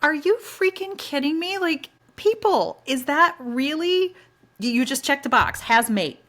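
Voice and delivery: high, loud, slowed outrage at people; exasperated rant against checking the box; outraged disbelief. Retold or imitated. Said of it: "I was like".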